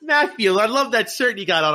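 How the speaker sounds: high-pitched Italian grandma impression; grandma's voice. Italian grandma admiring her grandson's shirt, high grandma impression. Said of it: "my grandma's voice".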